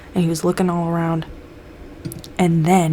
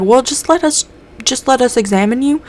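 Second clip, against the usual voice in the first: higher, insistent coaxing; coaxing plea; 7 semitones higher, 4 dB louder than usual. Retold or imitated. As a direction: try to talk him into it. Group coaxes Mulder to be examined.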